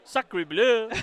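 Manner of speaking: loud mock French exclamation; hammed-up French chef outrage; French accent. Co-host joins French bit.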